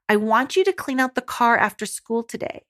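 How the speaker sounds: calm, direct parental request; composed and sure, without pleading; calm leadership. Shown as a demonstration. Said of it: "Speak with calm voice tone".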